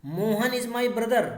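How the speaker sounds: slow, deliberate read-out of the example; teacher reading an example sentence word by word. Shown as a demonstration. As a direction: spell the sentence out slowly for the class. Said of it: "जैसे sentence पढ़िए".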